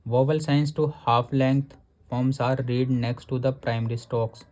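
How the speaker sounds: नियम को बहुत धीरे, शब्द-शब्द पढ़ना; किताब से नियम धीरे-धीरे पढ़कर सुनाना; धीमा पाठ. Acted. Reads rule from textbook slowly. (किताब का नियम धीमी आवाज़ में पढ़ना)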